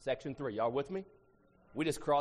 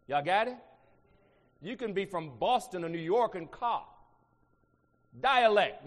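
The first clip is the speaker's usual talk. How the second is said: usual speaking voice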